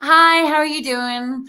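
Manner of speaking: slow, forced American accent; put-on American accent attempt. Shown as a demonstration. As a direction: try an American greeting, slowly and self-consciously. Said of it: "It's so forced".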